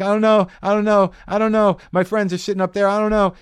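high, loud frantic repeat; mock panic, pleading; panicked. Tripping kid answering a stranger in high panic.

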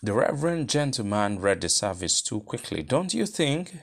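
a gently reproving question; mild disapproval, the question lifting; with reproof. Acted. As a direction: chide him for the rushed service. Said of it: "said with reproof".

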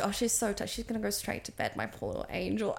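tender. Retold or imitated. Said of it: "I was like".

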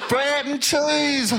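"Bread and cheese" slow, vowels flattened in Black Country; answering "brand cheese?" with a slow Black Country "Bread and cheese"; Black Country accent. Acted. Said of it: "brand cheese?".

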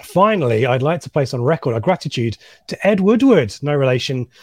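Brummie-style reading of a statement; West Midlands accent. Retold or imitated. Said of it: "West Midlands accent".

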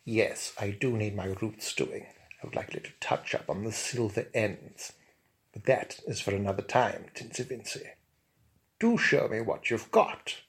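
stately, unhurried reply; Bunfrey's honeyed tones. Acted. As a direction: expert loftily answers the hairdresser. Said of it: "my honeyed, liquid, and highly well-pronounced tones".

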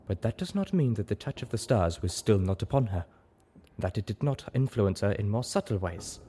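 lightly voiced zebra, measured and careful; a hint of a solemn zebra mentor; conceding zebra sage. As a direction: concede the point thoughtfully, in character.

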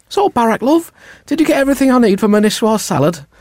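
high put-on wife voice; wife doing the shopping. Wife quizzing Barack about the shopping, high put-on voice. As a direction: pitch it up as a chiding wife. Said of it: "range of accents".

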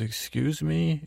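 mock-affronted, stretching the words upward; mild retold indignation. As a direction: act lightly taken aback. Retold quarrel, Gretchen takes offence.

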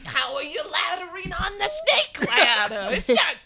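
hammed-up Brooklyn accent. Riffing to friends about snake ladders, Brooklyn accent. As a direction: lean into comic Brooklyn talk. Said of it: "got Brooklyn accent now".

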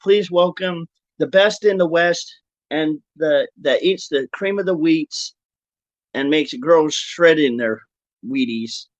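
announcer. Acted. Grand introduction of guest.

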